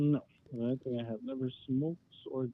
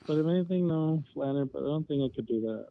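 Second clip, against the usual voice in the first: louder, right into the mic; talking into phone; 5 dB louder than usual. Real, not acted. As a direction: close to the phone. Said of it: "Yeah, please do that then".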